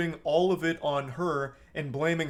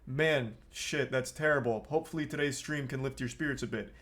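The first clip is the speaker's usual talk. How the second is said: sincere sympathy; 2 semitones lower, 4 dB quieter than usual. Shown as a demonstration. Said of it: "respond with some level of empathy".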